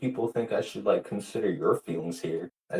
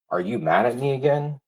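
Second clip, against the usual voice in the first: imitating Abe; 5 semitones higher, 5 dB louder than usual. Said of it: "Abe said to me".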